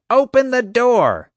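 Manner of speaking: loud high slow bellow; yelling. A narrator's reading. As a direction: pound the words out like fists on a door. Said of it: "she yelled".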